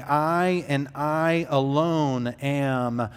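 slow, each "I" leaned on and drawn out; emphatic I. Acted. Preacher stresses the "I am" claim to his congregation, slow and emphatic. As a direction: stress "I and I alone" slowly, word by word. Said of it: "his emphatic "I am" statements".

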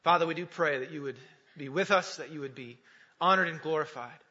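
measured prayer with long pauses. Real, not acted. Opens with a prayer.

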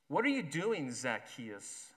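cynical question, dropping at the name. Acted. Judah questions Zacchaeus with cynicism. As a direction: sneer the question at him. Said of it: "There's intense cynicism in his voice".

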